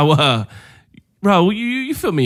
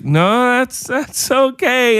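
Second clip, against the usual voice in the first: higher-pitched, drawn-out politeness; polite reassurance; 6 semitones higher, much slower than usual. Retold or imitated. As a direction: awkwardly wave off a mom's apology. Politely reassuring an apologetic mother.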